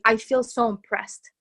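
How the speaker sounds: slow, heartfelt "I feel so impressed"; sincerely felt. Shown as a demonstration. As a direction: let "I feel so impressed" land slowly, from the heart. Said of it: "It's to say".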